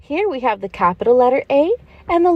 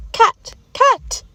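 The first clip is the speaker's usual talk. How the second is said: put-on much higher childlike echo of "alligator"; eager child repeating "alligator"; kids repeating; 10 semitones higher than usual. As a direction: squeal it back like a small pupil. Pretend pupils repeat the word.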